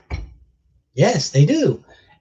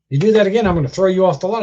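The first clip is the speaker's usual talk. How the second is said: retold threat; 4 semitones higher, 5 dB louder, faster than usual. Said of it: "When the guy said to me".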